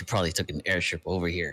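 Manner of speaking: quiet muttering under the breath. Reacting in character to a complaint about a hotel: muttered under breath. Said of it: "just under my breath".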